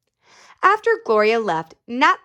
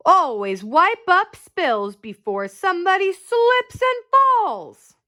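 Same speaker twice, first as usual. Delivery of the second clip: safety tip; 8 semitones higher, slower than usual. Acted. Officer gives safety tip.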